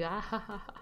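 risita de villano de película; ríete como un malo tramando algo; risa malvada. Pretend. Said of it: "Sí, así, con risa malvada". (carcajada malvada suave)

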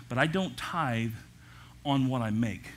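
"don't" slow and heavy, then a pause; stress on don't. Shown as a demonstration. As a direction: lean on "don't tithe", pause before "on what I make". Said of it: "I hope somebody grabs hold of this".

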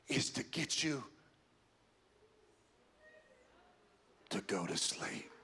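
low, soft, deliberate warning; grave, quiet pulpit warning; hushed preaching. Acted. Hushed, slow sermon emphasis.

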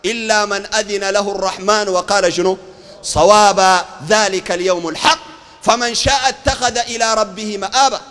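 slow, solemn verse recitation; measured chanted holy text; Quran recitation. Acted. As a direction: draw out the words of scripture.

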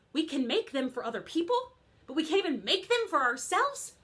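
put-upon, ranting character voice; lightly voiced indignant fairy godmother; aggrieved fairy godmother. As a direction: complain about thankless work. Fairy godmother comic monologue.

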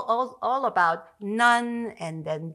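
laughing. Real, not acted. Amused by the Catholic textbook.

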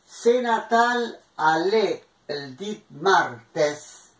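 "Se Natal ale el dit martes" spoken slowly, word by word; slow dictation. Shown as a demonstration. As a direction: dictate the proverb line slowly for the class. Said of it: "reading the proverb slowly". (dettatura lenta del proverbio)

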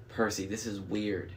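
understated stage whisper. A narrator's reading. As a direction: confide it quietly. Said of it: "Annabeth whispered".

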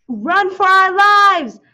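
panicked shout. A narrator's reading. Reading to children, the magicians shout in panic. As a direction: scream it as they flee the monsters. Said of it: "They shouted".

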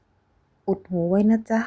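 slow, sweet and gentle. Acted. Frank gently telling his young wife to cover her ears. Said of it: "น้ำเสียงหวาน".

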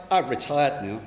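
a touch of lazy self-satisfaction; complacent. Acted. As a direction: settle back as if retired. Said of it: "That's what complacency is".

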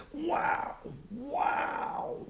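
dutiful whispered wow. Acted. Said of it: "equally dutifully exclaimed".

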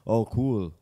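low, mock-admiring tone; patronizing. Imitating a reply to the mother's boast, patronizing. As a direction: fake interest, talking down a little. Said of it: "Like, so patronizing".

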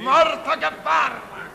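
bingo caller. Acted. Tombola smorfia meaning called back.

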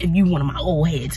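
unvoiced aside; quick whispered aside. Real, not acted. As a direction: whisper it to your longtime fans. Whispered aside to longtime viewers.

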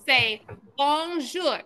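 bonjour said slowly, nasal French on; slow model word. Shown as a demonstration. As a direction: spell out bonjour slowly for kids to repeat. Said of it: "I need you to repeat after me".

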